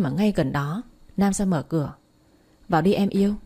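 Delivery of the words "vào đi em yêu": lightly put-on coy lover's tone; a hint of syrupy sweetness to his girlfriend; affected sweet talk. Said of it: "anh nói điệu kinh quá". (giọng hơi điệu đà)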